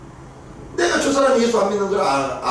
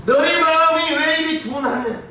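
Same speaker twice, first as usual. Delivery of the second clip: high, raised voice of rebuke; exasperated lament; 8 semitones higher than usual. Retold or imitated. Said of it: "이렇게 탄식하시는 거예요".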